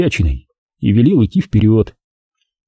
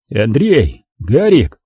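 enthusiastic yell; much slower than usual. Acted. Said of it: "завопил я с новым энтузиазмом".

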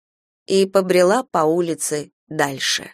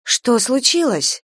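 serious concern; 6 semitones higher, slower than usual. A narrator's reading. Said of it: "Такой серьёзной я Мину ещё не видела".

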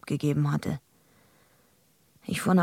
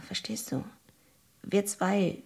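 urgent whisper; 2 semitones higher, 5 dB quieter than usual. Acted. Urgent warning to Goldie.

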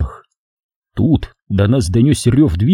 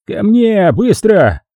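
barked; 10 semitones higher, much slower than usual. A narrator's reading. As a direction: bark at the frozen partner. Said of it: "рявкнул Гальс".

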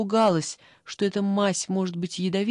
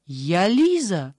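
a louder, slow, drawn-out exclamation; exclaiming; 6 dB louder, much slower than usual. Acted. Liza, insisting on who she is, exclaims loudly and slowly. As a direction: declare your name, outraged. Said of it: "воскликнула Лиза".

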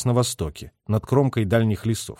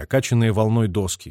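usual speaking voice

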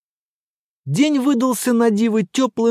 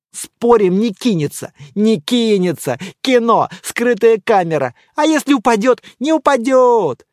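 excited chatter; 4 semitones higher, 4 dB louder than usual. Acted. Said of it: "хихикали и возбуждённо переговаривались".

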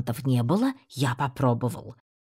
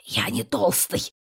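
hoarse protest; 5 semitones higher than usual. A narrator's reading. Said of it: "прохрипел я".

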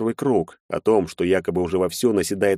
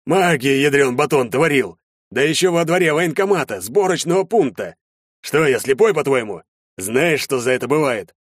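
furious major; 7 semitones higher, 4 dB louder than usual. A narrator's reading. Major furiously scolds recruit.

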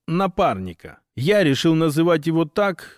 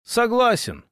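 resigned sigh, higher pitch; 8 semitones higher than usual. A narrator's reading. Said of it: "вздохнул я".

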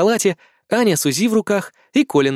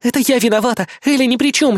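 higher, louder, breathless rush of confession; frantic, louder babbling; rattling off; 9 semitones higher, 4 dB louder than usual. A narrator's reading. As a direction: blurt it all out in one go. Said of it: "Аня тараторит вместо меня".

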